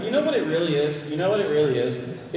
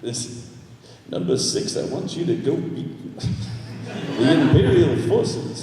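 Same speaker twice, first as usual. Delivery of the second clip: laughing through a mock commander line; 5 semitones lower than usual.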